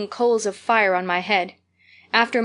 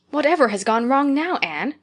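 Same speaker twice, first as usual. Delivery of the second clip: higher, dismayed query; doubtful dismay; 5 semitones higher than usual. Acted. Marilla asking sobbing Anne what went wrong. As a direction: ask it in anxious dismay. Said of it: "queried Marilla in doubt and dismay".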